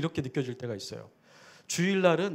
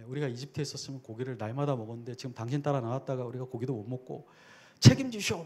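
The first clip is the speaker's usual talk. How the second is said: whine, then snap out the last word; complaining grumble; faster than usual. Retold or imitated. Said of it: "막 이렇게 원망을 해요".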